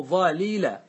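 slow "ظليلة" with both lams separated, dhalila; uncontracted original form. Shown as a demonstration. Teacher showing the root of the verb, "ظليلة" as slow dhalila. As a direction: draw out "ظليلة" syllable by syllable. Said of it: "أصل ظل".

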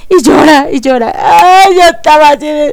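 real tears breaking through; tearful. Real, not acted. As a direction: voice cracking, on the edge of tears. Crying over the series' ending.

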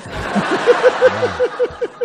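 loud crowd laughing; big laugh from the room; audience laughter. Real, not acted. Audience at the comedy club laughing loudly at the joke.

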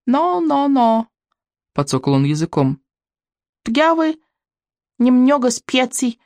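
put-on strong but unconvincing French accent; hammy French chef accent, amused. A narrator's reading. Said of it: "с сильным, но неубедительным французским акцентом".

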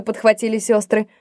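usual speaking voice

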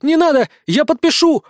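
high-pitched panicked plea, hammed up; high, theatrical begging; feigned horror. A narrator's reading. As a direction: cry out in mock terror. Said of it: "в притворном ужасе закричала моя марионетка".

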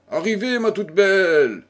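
appel haut et fort depuis le fauteuil; vieille dame qui crie. A narrator's reading. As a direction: lancer l'accueil à pleine voix. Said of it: "cria le douairière". (la douairière crie à Clotilde depuis son fauteuil, d'un ton joyeux)

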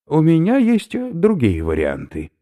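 high, loud lecturing professor; a delighted academic explaining his find; eccentric professor. Acted. Professor lectures captives on snail protein, high eager voice.

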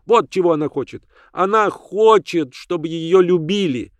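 put-on high stubborn child's cry; shrieking child. The ragged girl shouts defiantly at both women. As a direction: stamp and shout it's mine. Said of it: "отвернулась и закричала".

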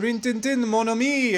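light put-on French accent. Playing the Frenchman who sets off the dog, French accent. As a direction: greet the dog with a playful French lilt. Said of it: "He's gonna hear that French accent".

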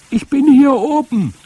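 put-on high, loud boy's shout from up high; child calling out at full voice; calling back. A narrator's reading. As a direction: yell down from the treetop. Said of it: "rief ich zurück".

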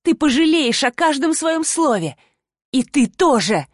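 mild hissed menace; hissing threat. Acted. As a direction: promise revenge through a hiss. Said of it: "прошипела она".

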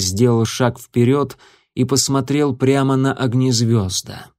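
ordinary delivery, nothing marked

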